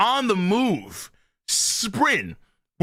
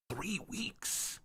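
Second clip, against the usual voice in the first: hushed whisper of disbelief; whispered echo; 18 dB quieter than usual. Real, not acted. Reactor repeating the hunt's time frame, hushed whisper. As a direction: breathe it out in awe. Echoing the clip's three-week deadline.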